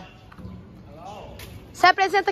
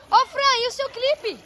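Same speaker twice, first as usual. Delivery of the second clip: calling out; 8 semitones higher than usual. Real, not acted. Calling out to pool.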